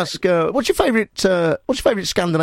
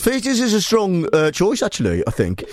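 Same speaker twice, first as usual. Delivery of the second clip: put-on Brummie interviewer voice; Birmingham accent; 3 semitones higher than usual. Host interviews lunching caller, mock Birmingham accent. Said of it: "I'll do Birmingham".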